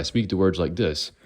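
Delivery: another put-on accent for "speak the words like this"; change the accent on "speak the words like this"; demonstrated accent. Shown as a demonstration. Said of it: "if I speak the words like this".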